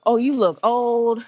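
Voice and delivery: slow, drawn-out imitation of a taunt; mock taunt. Man picking at the driver's looks, mock taunt. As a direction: imitate someone picking at flaws, stretching it. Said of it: "people start picking stuff from this guy".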